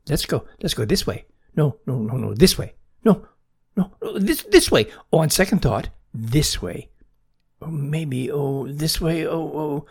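frantic chick changing its mind, jumping in pitch; excited screeching. A narrator's reading. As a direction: dither wildly between directions like an excited fledgling. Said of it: "screech excitedly".

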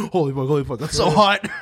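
giggly mock lust; laughing impression of a singer. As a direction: lose it by the end. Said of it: "it's a singer going".

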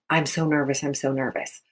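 low, soft, anxious muttering to oneself; nervous self-talk. Shown as a demonstration. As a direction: sink the voice as if dreading it. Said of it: "supposed to think to themselves".

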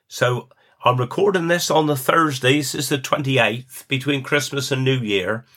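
usual speaking voice

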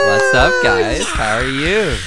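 excited greeting. Pretend. Guest greeting the virtual crowd.

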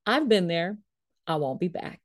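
retold blunt, matter-of-fact verdict. Niece answers about visiting the church, matter-of-fact. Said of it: "She just said it so very matter-of-factly".

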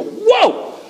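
very high-pitched whoop of wonder; amazed. Acted. Preacher shows wonder at beautiful Scripture, amazed. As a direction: leap up high in astonishment.

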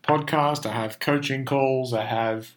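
tired, strained voice that's going; losing voice. Real, not acted. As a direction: talk through a worn-out throat. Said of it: "I am losing my voice".

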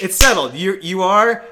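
loud, high declaration; retold booming verdict; imitated decisive professor. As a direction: declare it emphatically, as the teacher. Professor declares the matter decided.

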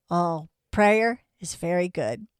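slow, lightly imitated Chinese accent. Acupuncturist approving of prayer, slow imitated Chinese accent. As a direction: imitate halting English with a slight Chinese accent. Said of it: "He speaks very broken English".

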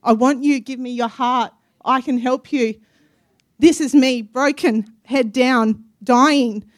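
a lightly voiced loving God reaching out; voicing God. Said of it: "He said".

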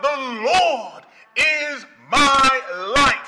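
slow, ringing "The Lord is my light" with laughter; exultant slow call of "The Lord is my light"; joyful proclaiming. Acted. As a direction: shout "The Lord is my light" in glad triumph.

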